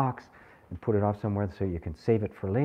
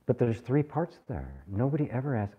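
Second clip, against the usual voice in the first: ordinary delivery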